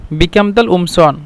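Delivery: "উমসন" starts on a bare glottal onset, no q; hamza for qaf. Shown as a demonstration. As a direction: drop the k sound at the start of "উমসন". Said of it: "কফকে মিশিটা হামজা বলে".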